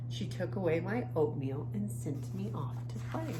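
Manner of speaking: lively, expressive picture-book reading; reading to children. A narrator's reading. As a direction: read the story to young kids with feeling. Reads picture book aloud.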